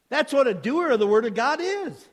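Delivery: high, loud, fired-up preaching. Real, not acted. Preacher challenging hearers to look into God's word, impassioned preaching.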